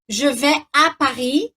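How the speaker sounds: je vais à Paris said the French way; French pronunciation. Shown as a demonstration. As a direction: say it in French, à clear. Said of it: "quando eu digo assim". (pronúncia francesa)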